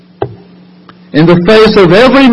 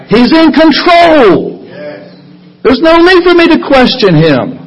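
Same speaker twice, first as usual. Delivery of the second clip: fervent affirmation; 7 semitones higher than usual. Acted. Preacher affirms with fervor.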